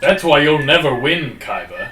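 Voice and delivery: anime voice. Retold or imitated. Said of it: "Oh, I love that voice".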